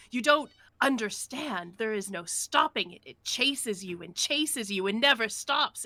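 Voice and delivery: deranged raving. Acted. Sea dog accusing the doctor, raving loudly. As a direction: rave like a half-mad sailor.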